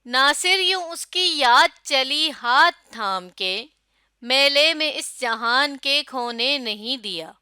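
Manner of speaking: slow, song-like verse reading; rhythmic recitation. Shown as a demonstration. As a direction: recite with a steady lilt. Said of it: "میرے پڑھنے میں ایک rhythm تھا". (لے کے ساتھ شعر پڑھنا)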